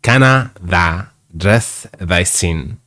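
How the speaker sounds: slow, broad Yorkshire "Canna tha dress thy sin?"; a reader attempting a lightly done Yorkshire "Canna tha"; Yorkshire dialect. Shown as a demonstration. Reader contrasting plain English with slow Yorkshire dialect. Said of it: "But she said it".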